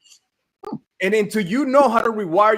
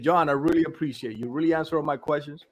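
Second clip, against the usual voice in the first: lower, settled imitation of a relieved client; relieved, appreciative; 6 semitones lower, 4 dB quieter than usual. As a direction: retell his thanks with mild relief. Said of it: "that he was relieved".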